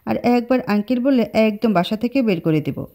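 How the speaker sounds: mild flustered threat; embarrassed man threatens the girl; flustered scolding. Acted. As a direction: scold her, a bit thrown. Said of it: "থতমত খেয়ে ধমক দিয়ে বলল".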